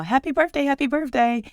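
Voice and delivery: imitating a friend sweetly singing out happy birthday; cheery birthday greeting. Friend's cheery birthday call retold.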